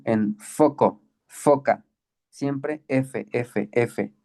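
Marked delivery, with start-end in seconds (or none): 2.3-4.1 repeated "F" softer, showing the sound; F sound demo. Shown as a demonstration. Teacher modelling phi as F for students. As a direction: model "F" for the class, quietly. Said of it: "Esta suena como fu".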